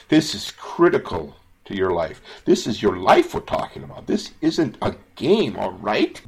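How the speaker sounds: real emotional plea to viewers. Real, not acted. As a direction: plead with them as if their life depends on it. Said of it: "sorry for getting so emotional".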